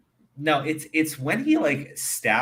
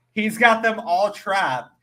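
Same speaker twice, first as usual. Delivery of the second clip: normal talking voice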